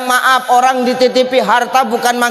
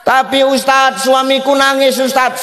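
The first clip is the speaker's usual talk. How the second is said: voiced wife; 5 semitones higher than usual. Wife voiced complaining to preacher.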